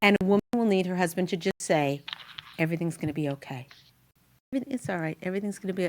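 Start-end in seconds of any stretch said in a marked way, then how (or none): 2.6-5.8 soft, acted husband's reassurance; mild reassurance. Husband to wife when everything falls apart, softly reassuring. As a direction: soothe her gently, voice dropped.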